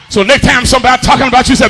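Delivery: rapid, driving sermon delivery; full-force preaching. Real, not acted. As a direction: rush it out to the congregation. Preaches to congregation.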